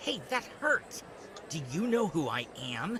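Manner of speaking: haughty, outraged, entitled-sounding tone. Protesting after getting hurt: sounding like a Karen. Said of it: "now who sounds like a Karen?".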